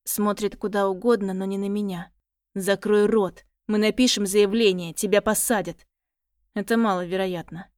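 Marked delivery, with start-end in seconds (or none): 2.5-5.9 angry shout. Acted. Father shouts at boy.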